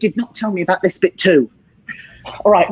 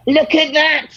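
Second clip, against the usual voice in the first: high, excited showman cries; over-the-top wonder at a fake trick; mock amazed; 8 semitones higher, much slower than usual. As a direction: hype up the fake levitation trick. Mock levitation showman reveal.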